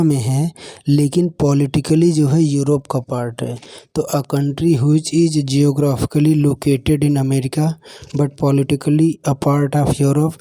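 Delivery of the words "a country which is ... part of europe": slow dictation. Shown as a demonstration. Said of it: "teacher reads the mnemonic question".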